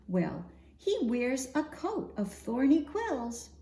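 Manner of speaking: lively, sing-song picture-book reading; expressive storytime voice for little ones; reading to children. Acted. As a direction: read the rhymes out to a group of kids.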